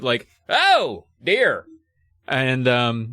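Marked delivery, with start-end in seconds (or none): 0.5-1.6 high comic shriek of dismay; high-pitched, drawn-out mock dismay; Eugene Levy. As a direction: yelp it high, then let it fall. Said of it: "the way Eugene Levy might".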